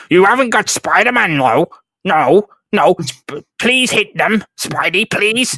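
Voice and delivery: high, pleading mock whimper; hammed-up terrified pleading; full coward mode. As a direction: beg like a cowering coward. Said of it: "he goes full coward mode".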